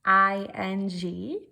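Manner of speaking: I N G spelled slowly and loudly, letter by letter. Shown as a demonstration. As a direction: spell out I N G loud and slow. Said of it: "If I'm adding".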